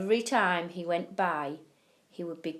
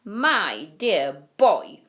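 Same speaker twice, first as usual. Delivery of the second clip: Grandpa Joe; 7 dB louder, much slower than usual. A narrator's reading. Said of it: "said Grandpa Joe".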